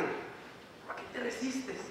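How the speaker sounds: a gentle, drawn-out question; soft plea. Real, not acted. Preacher asks a worldly Christian why they resist, soft and slow.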